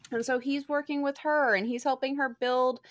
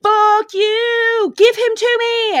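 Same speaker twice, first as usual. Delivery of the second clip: loud, higher furious demand; angry yelling; 12 semitones higher, 16 dB louder, much slower than usual. Retold or imitated. Woman yelling at officials for her man. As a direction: yell it at the people in charge. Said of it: "keeps going up to the people in charge".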